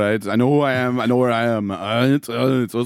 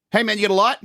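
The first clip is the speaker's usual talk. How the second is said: higher, hammed-up mugger voice; mugger character; 9 semitones higher, faster than usual. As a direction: play the mugger on the retake, pitched up.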